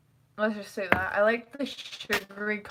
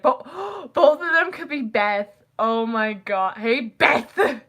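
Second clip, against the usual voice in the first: gasping, louder mock excitement; excited realisation; 5 dB louder, slower than usual. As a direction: gush as if it just dawned on you. Excited retold realisation of nickname.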